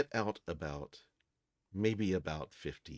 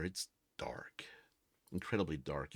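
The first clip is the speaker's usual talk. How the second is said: whispered; 3 semitones lower, 5 dB quieter than usual. Acted. DM sets eerie underwater scene.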